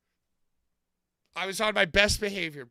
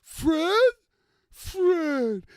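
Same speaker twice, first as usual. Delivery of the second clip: hammed-up groan at the screen; mock exasperated outburst; 8 semitones higher, much slower than usual. Groaning at the movie in the theater, exasperated and high. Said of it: "And I went".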